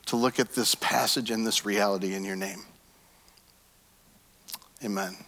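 measured, earnest prayer voice; pastoral prayer. Acted. Pastor praying over the congregation, earnest and calm. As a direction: pray over the room, steady and sincere.

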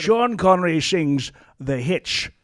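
Scottish accent with slushy s sounds; slow Scottish star impression; Sean Connery. Shown as a demonstration. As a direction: announce it slowly in a mock Scottish accent. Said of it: "I like a bit of Sean Connery".

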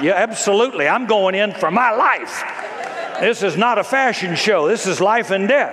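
a hint of a queen steeling herself; determined Esther. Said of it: "Esther who said".

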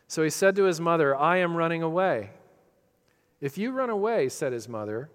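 brisk, lively picture-book reading with voiced bunny and mother; reading to children. Preacher reading The Runaway Bunny to his congregation, storybook voice. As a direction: read it like a bedtime story to little girls.

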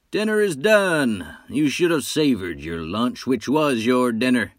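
high, bright sing-song call; high and cheerful. Acted. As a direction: call it out high and merry, almost singing. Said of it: "high and cheerful, as if singing".

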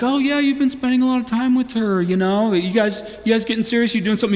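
lightly voiced nosy buddy; teasing guy friend. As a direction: prod a pal about his girlfriend. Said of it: "goes to his guy friends".

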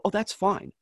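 high-pitched, breezy retold reply; lightly acted carefree okay; retold easy agreement. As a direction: act out brushing it off. Retelling his easy reply to fan.

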